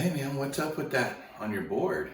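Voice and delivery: high, loud challenge to the stranger; confronting. Retold or imitated. He confronts the surfer kid about his board, high and loud. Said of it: "I'm like".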